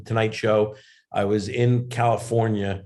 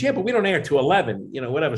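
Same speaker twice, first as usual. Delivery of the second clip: reassuring Jay Leno; 3 semitones higher, faster than usual. Retold or imitated. Leno reassures panicked comic backstage, higher and soothing. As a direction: talk a nervous comic down gently. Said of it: "he calmed me down".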